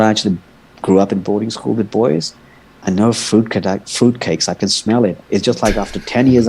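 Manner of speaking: a touch of tough-guy menace; mild tough threat. Retold or imitated. Man quoting his warning to the swimmer, low steady threat. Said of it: "I was like".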